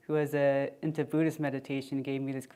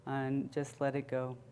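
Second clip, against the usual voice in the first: calm meditation guide, long pauses between phrases; guided meditation. Real, not acted. Meditation leader guiding listeners to check in with body and breath, calm and unhurried. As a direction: ease listeners gently inward, leaving room to breathe.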